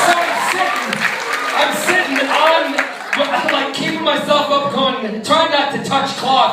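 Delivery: high, loud, straining storyteller voice; comic strain. Retold or imitated. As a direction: hold yourself up and push the words out high. Continuing comic panic story.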